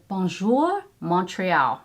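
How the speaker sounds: French palette name in an amateur accent; attempted French accent. Real, not acted. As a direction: have a go at French pronunciation. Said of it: "my French accent is horrible".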